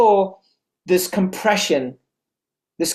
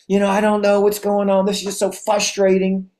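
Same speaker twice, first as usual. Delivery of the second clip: woe-is-me whine; 3 semitones higher than usual. Retold or imitated. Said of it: "Not the woe is me questions".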